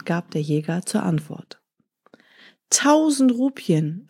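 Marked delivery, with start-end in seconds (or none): 2.7-4.1 surprised. Acted. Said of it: "sprach der Kaufmann".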